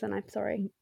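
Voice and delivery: sipping a drink while talking; wet mouth clicks. Real, not acted. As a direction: talk right after a sip. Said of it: "I'm gonna make a mouth noise".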